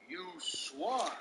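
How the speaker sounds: very casual. Retold or imitated. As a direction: toss it off like it's nothing. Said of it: "a very casual".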